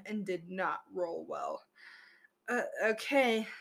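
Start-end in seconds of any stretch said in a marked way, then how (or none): 2.5-3.5 skeptical. Acted. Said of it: "the bronze dragon said skeptically".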